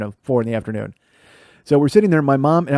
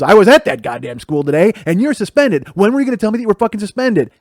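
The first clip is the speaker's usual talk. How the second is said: angry scolding; 5 semitones higher, 3 dB louder than usual. Retold or imitated. Mom scolding son.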